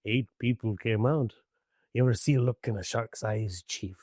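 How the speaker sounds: low, grim sea-captain voice; a hint of the old shark hunter warning the chief; Robert Shaw as Quint. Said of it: "Robert Shaw character".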